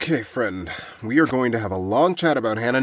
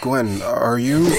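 tearful; 3 semitones lower, much slower than usual. Acted. Crying in shock.

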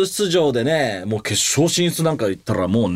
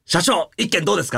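higher, mock solicitation of a boss; imitated call-out; 5 semitones higher than usual. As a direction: call out like someone pitching to the president. Imitates people approaching with offer.

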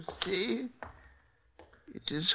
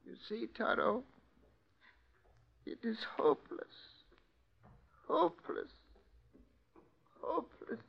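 despairing; 4 dB quieter than usual. Acted. Despairing cellmate, cry heard.

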